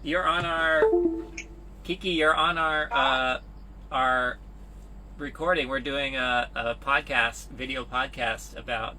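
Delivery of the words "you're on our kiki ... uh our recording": yelling across the room. Real, not acted. Calling to Kiki entering the room.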